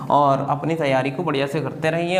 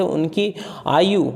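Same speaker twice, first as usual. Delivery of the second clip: slow dictation; much slower than usual. Shown as a demonstration. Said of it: "पढ़ के दिखा".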